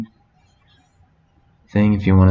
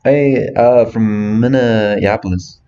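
mock Minnesota accent, a bit higher; playful put-on Minneapolis accent; a lightly hammed-up Minnesota accent; 3 semitones higher, slower than usual. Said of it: "It's spot on".

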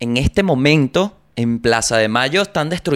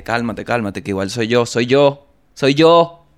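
building reassurance; 5 dB louder than usual. Retold or imitated. Calming crying girlfriend, reveal.

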